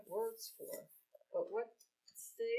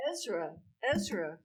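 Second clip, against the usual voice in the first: calling out; 6 dB louder than usual. Acted. Calling out to an old friend.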